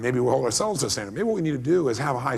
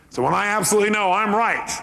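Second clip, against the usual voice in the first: ordinary talk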